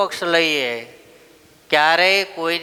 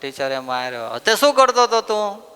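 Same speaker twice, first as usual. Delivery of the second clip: a hint of a sniffling little boy complaining; whining child; 3 semitones higher than usual. Boy complaining to his mother about the teacher. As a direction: whimper it like a hurt child.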